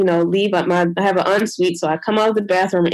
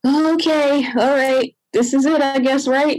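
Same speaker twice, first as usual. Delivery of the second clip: nervous, higher; 5 semitones higher than usual. Retold or imitated. Retold nervous moment in labor.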